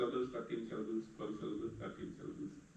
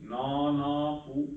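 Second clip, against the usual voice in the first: "Nana Pu" said slowly, each syllable weighed; syllables marked out; 5 dB louder, slower than usual. Shown as a demonstration. Teacher marking long syllables for students, slow and deliberate. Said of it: "Guru Guru Lagu".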